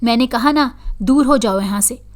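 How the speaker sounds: understated angry cry to drive her away; angry shout. Acted. Possessed girl orders her mother out, mild mock yell. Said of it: "गुस्से से चिल्लाते हुए कहा".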